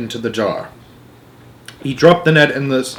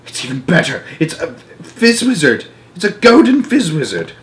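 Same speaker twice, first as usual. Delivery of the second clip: building delight; 6 semitones higher than usual. A narrator's reading. Giant realises he caught a golden dream, rising delight. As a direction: let the wonder swell.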